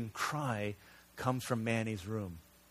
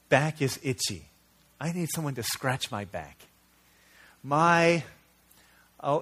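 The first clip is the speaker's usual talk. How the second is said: fake crying child; 3 semitones higher, 5 dB louder than usual. Daughter stalling bedtime, mock whiny fake cry. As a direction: play a little girl fake-crying to stay up. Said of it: "a fake cry".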